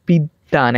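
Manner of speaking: slow বিদ্যান as "bid-dan"; doubled consonant. Shown as a demonstration. Teacher showing students doubling, slow "bid-dan" for বিদ্যান. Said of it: "একবার বিদ উচ্চারণ করতেছি".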